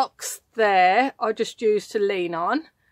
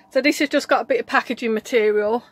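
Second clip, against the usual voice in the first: puffing after climbing about; breathless from moving around; out of breath; faster than usual. Real, not acted. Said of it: "I'm out of breath now".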